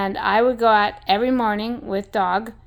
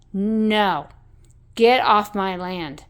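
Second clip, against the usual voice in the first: louder, slow, mild mock yell; a half-hearted reenacted yell at hunters; slow, louder get-off-my-land shout, only mildly yelled; retold yell; 6 dB louder, slower than usual. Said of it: "So I started screaming".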